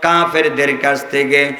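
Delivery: rousing waz-style oratory with long melodic cadences; fervent preaching. Real, not acted. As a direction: preach to a crowd, drawing out phrase endings.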